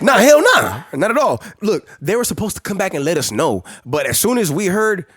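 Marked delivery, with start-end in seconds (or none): 0.0-1.4 laughing. Real, not acted. Laughing denial.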